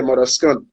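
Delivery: "skunt" with a K between S and vowel; local Anguillan pronunciation. Shown as a demonstration. Artist explains the added K to interviewer, "skunt" with SK. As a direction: sound the SK at the start of "skunt". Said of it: "we put a K in between of there".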